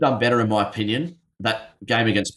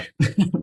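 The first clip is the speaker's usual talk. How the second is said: hiccup; 10 semitones higher than usual. Real, not acted.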